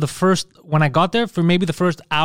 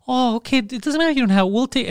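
high, placating imitation; high-pitched soothing mimicry; imitated calming down; 8 semitones higher than usual. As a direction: mimic them suddenly backing off gently. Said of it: "they became calm, like".

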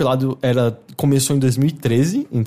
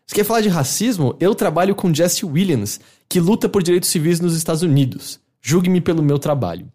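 quoting David Cage; 4 semitones higher than usual. Retold or imitated. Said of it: "eu vou aqui, abre aspas".

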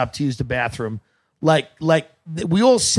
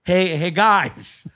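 higher, slow motherly coax; motherly pilot; 5 semitones higher, much slower than usual. Retold or imitated. Comedian mimicking a pilot's mom voice to passengers. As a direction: lightly mimic a pilot soothing kids like a mom. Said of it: "like a mother".

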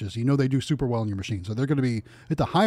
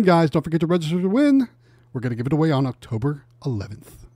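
Price is Right announcer. Acted. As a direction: hype up the prize like a TV host. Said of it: "Price is Right announcer voice".

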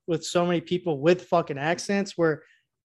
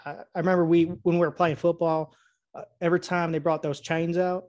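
Southern accent. Shown as a demonstration. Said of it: "You can't really talk like this too long".

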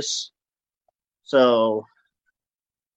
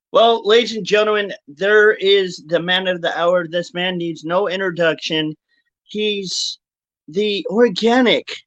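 announcer. Acted. Grand introduction of guest.

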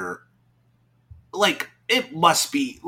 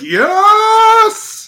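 excited yes; 10 dB louder than usual. Retold or imitated. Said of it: "I'm like".

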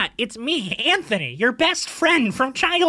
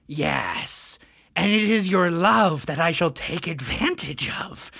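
sewer monster. Acted. Monster reveals plan.

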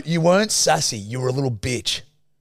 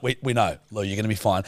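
lower, placating aside; retold reassurance; 6 semitones lower, 4 dB quieter than usual. Crew placates nervous Lou for the umpteenth time, retold reassurance. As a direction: imitate a crew soothing someone patiently.

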